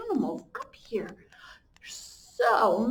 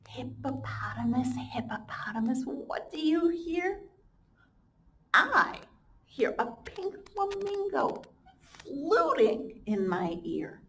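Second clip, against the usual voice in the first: put-on reading to children; 2 semitones higher than usual. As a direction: chant the refrain for little ones. Reads picture book to children.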